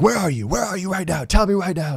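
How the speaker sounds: imitated angry dad, high-pitched and urgent; mad dad. Dad demanding where his son is, angry. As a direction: fire off demands like a furious parent. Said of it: "He was so mad".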